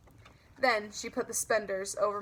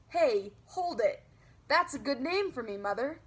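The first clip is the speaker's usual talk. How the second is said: excited idea; 3 semitones higher than usual. Acted. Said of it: "my whole face lighted up".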